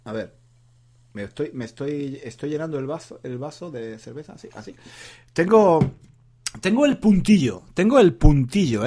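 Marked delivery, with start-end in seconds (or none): 5.3-8.9 a little tipsy after beer. Real, not acted. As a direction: talk tipsy, slightly loose and merry. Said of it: "Como estoy yo ahora".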